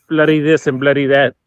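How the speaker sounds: lightly mocked English accent; a joking stab at English-accented speech; imitating the English. Joking about how the English say bloody, light mock English accent. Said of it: "when we're imitating the English".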